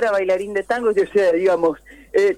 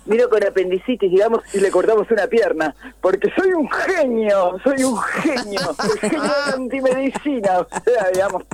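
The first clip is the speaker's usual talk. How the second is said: Milei impression. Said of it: "si Milei fuera médico, cómo le diría al paciente".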